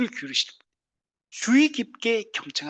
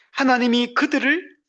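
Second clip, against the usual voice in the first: normal talking voice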